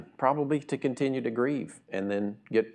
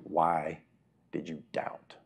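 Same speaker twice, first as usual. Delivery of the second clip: gentle rebuke; 5 semitones lower, slower than usual. Acted. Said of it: "said to him".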